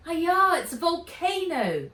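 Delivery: loud, high alarmed shout. A narrator's reading. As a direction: yell it out in panic. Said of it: "she shouted".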